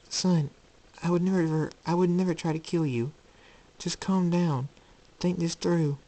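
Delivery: high, earnest motherly voice; frightened mother, pleading. Acted. Luna to the son threatening her, high and pleading. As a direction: try to calm them down, urgently gentle.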